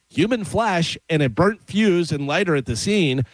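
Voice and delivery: measured radio news read; deliberate read-aloud cadence; news item read. Acted. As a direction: read the odd story out to listeners.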